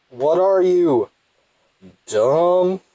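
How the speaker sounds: loud, high-pitched rebuke; exasperated scolding. Real, not acted. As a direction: raise your voice high at a hopeless idiot. Berates a game character.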